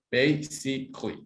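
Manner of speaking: "Basically" said as three syllables, BAY-sik-lee; teacher's dictation: "Basically" with three beats; slow model word. Shown as a demonstration. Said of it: "how many syllables can you hear?".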